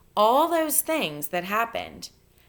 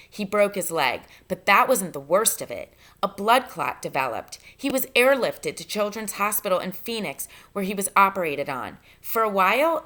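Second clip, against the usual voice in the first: reading a novel aloud to the class, lively and clear; story narration. Acted. Teacher reading Stargirl chapter to her students, storyteller narration. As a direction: tell the story with a storyteller's rise and fall.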